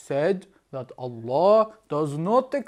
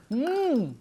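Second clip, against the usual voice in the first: delighted; 4 semitones higher than usual. Pretend. Hammed-up drinking delight.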